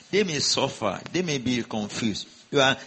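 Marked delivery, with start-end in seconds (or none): 2.5-2.8 louder, driving proclamation over the crowd; forceful declaration. Real, not acted. Preacher declaring blessing over the church, louder and driving.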